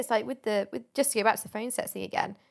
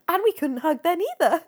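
laughing; 6 semitones higher, 5 dB louder than usual. Real, not acted. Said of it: "my punchline".

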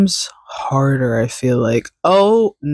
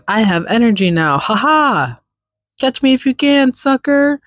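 voicing the cat, higher and faster, taunting; cat's teasing voice; 7 semitones higher than usual. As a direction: play the hyper cat taunting her owner. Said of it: "She said".

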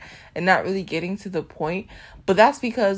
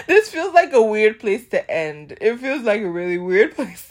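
laughing; 3 semitones higher, 4 dB louder than usual. Real, not acted. Laughing at own awkward ending.

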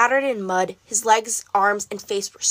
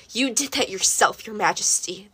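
croaked. Acted. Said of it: "the old man croaked".

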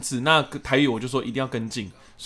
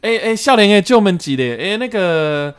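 put-on higher, louder old grandma; grandma in Taiwanese; 6 semitones higher, 8 dB louder, slower than usual. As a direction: play a grandma asking a young man the way in Taiwanese. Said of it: "她讲的台语".

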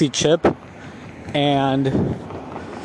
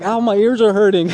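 mimicking Ethan in pain; 6 semitones higher, 3 dB louder than usual. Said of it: "He's like".

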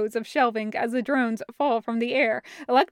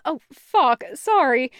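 abrupt; 2 semitones higher, 4 dB louder than usual. Acted. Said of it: "Taco says abruptly".

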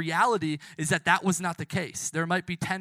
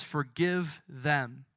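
hushed forgiveness; 6 semitones lower, 6 dB quieter than usual. Acted. Jesus forgiving us from the cross, hushed. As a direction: speak it softly over them. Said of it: "he says that also over us".

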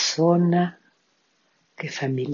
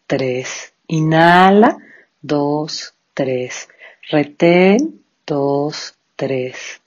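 each cue called out rising, counts fading; slow breath counting; much slower than usual. Shown as a demonstration. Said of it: "Vamos a comenzar entonces con nuestro pranayama".

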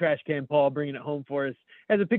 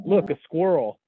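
mock American accent; 3 semitones higher, 4 dB louder than usual. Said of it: "Americans see a tree rodent and go".

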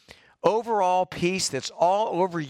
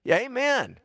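heartfelt amen; 7 semitones higher than usual. Real, not acted. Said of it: "I like that amen".

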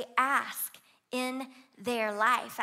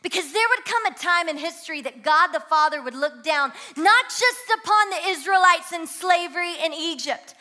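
rising, higher and louder toward a shouted climax; full-force preaching; 7 semitones higher, 11 dB louder than usual. Real, not acted. Preacher crying out to the congregation, building to a shout. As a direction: build the sermon to a roaring peak.

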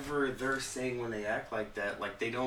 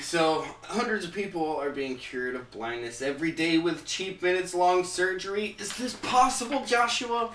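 higher, louder anchorman delivery; news reporter voice; 6 semitones higher, 4 dB louder than usual. Acted. Reading the good news story to co-hosts, mock anchorman voice. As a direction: read it like a TV newsman. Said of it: "that reporter thing".

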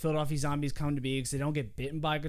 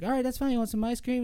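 doting Doug; 6 semitones higher, faster than usual. Retold or imitated. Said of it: "He's like".

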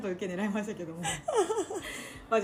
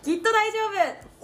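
grand title announcement; 11 semitones higher, 4 dB louder than usual. Acted.

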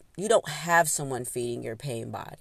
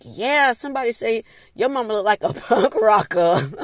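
gossiping classmates; 5 semitones higher, 9 dB louder than usual. Retold or imitated. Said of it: "People are like".

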